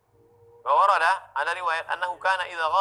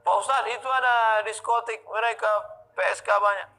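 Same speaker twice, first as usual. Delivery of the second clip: higher, eager voice of a congregant tattling; voiced follower, higher and urgent; worried congregant; 7 semitones higher than usual. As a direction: play an excited follower reporting the nightclub. Congregant voiced reporting sinners.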